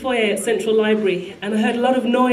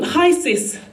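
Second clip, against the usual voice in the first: higher-pitched, cheery imitated hello; imitating a friend's beaming hello; big-smile greeting; 6 semitones higher than usual. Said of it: "with a big smile".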